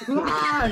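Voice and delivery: high-pitched mock scream. Mister Pitt starts screaming, high mock scream. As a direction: scream like a staticky robot. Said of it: "He starts screaming".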